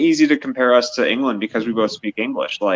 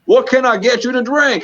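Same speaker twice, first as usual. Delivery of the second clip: put-on Southern bartender accent; 10 semitones higher than usual. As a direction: ham up a Louisiana bartender's twang. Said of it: "I was in a Foghorn Leghorn sketch".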